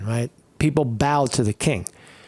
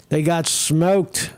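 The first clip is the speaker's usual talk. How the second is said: slow drawn-out repeat; 3 semitones higher, much slower than usual. Real, not acted. Repeats line slowly.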